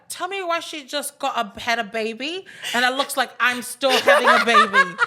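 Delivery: mock outrage through laughter; laughing mock complaint. Friend joking about a fit new mum, laughing mock complaint.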